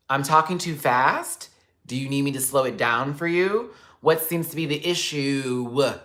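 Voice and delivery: slow, sarcastic retold reply; mocking comeback. Narrator mocking the bike man's complaint, slow sarcasm. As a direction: drag it out to mock him. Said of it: "retold reply".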